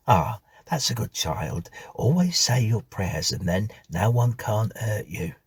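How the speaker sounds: a motherly housekeeper confiding a warning; old housekeeper. Acted. Mrs Bunch cautions Stephen about the marks, homely housekeeper voice.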